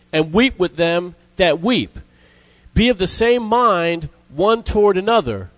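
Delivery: solemn Bible reading; scripture reading. Acted. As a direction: read the verses out phrase by phrase. Reads scripture aloud to congregation.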